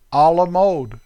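everyday American "A la mode"; American-accented French phrase. Shown as a demonstration. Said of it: "Darn American accent".

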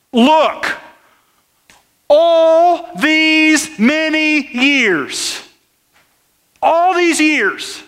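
high, drawn-out aggrieved complaint, slow; bitter older brother. Acted. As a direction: plead a lifetime of grievance, stretching each word.

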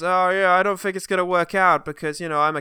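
loud trailer-line parody, building to a yell; imitating Hellboy. Host mimicking the trailer's big line, hammed-up roar. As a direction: start loud, drag the last words into a long high shout. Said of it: "he says".

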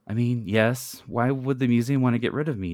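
mild distressed plea; a touch of a wail, no sobbing; crying out. Acted. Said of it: "Janet cries".

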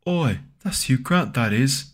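cockney bobby. Retold or imitated. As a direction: belt it like a London copper. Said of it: "But it was in America, though".

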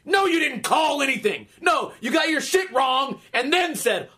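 acted-out fed-up telling-off; exasperated retort. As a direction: chew out a sore loser, hitting each point. Retort to a repetitive loser.

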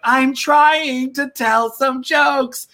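high, slow Pee-wee whine; same high Pee-wee voice on the comedy stage. Retold or imitated. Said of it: "it was like".

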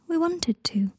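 high, light character voice; voiced Luna. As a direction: pitch it well up for Luna's line. Luna voiced in narrated story.

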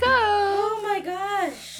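drawn-out exclamation. Real, not acted. Frustrated, decorating falls apart.

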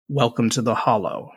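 slow, drawn-out crone; a lightly voiced ancient witch; old crone voice. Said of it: "And the last one".

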